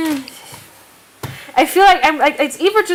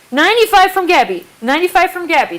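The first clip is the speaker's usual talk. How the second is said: loud auctioneer call; calling out the bid; 4 semitones higher, 5 dB louder than usual. Real, not acted.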